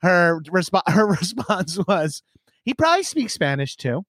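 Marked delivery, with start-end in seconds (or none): 2.6-4.0 higher-pitched imitation of a flustered mom; embarrassed mom. Mom excusing her gracias to Italian waiter, embarrassed. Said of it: "she was so embarrassed".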